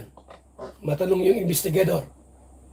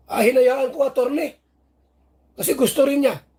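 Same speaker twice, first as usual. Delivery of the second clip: mock complainant voice; 3 semitones higher than usual. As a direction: play the coy accuser, pitched up. Acting out Beyonce's answer.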